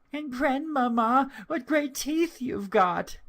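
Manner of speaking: put-on very high, wondering child's voice; little girl's voice. A narrator's reading. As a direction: marvel like a small girl. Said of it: "said the little girl".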